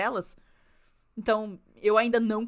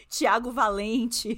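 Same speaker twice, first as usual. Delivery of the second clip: slow, drawn-out name through laughter; laughing joke; 4 dB louder, much slower than usual. Real, not acted. Friend joking TV means a person, slow and laughing. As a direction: stretch the fake name while laughing.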